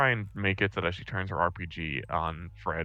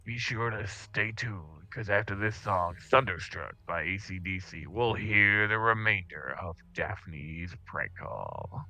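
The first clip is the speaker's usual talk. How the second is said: lightly voiced radio DJ, slow at times; slower than usual. DJ telling listeners to stay tuned, light DJ voice. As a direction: wrap the segment like a DJ. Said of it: "to the listeners and be like".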